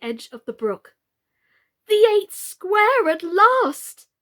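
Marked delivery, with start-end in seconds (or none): 1.9-4.1 much higher, loud, slow cry of triumph; joyful cry. Acted. Alice leaps into the eighth square, crying out joyfully. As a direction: shout it out in triumph. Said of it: "she cried as she bounded".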